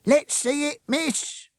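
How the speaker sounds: high, loud chorus of pushy reporters; all call out at once; eager reporters. A narrator's reading. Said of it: "chorused the reporters".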